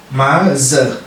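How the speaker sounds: MOTHER with an open A, "ma-za"; demonstrated pronunciation. Shown as a demonstration. Teacher showing how to read the O as A, careful pronunciation of MOTHER. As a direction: draw out MOTHER in two syllables, first one "maa". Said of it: "comme si da nga naan".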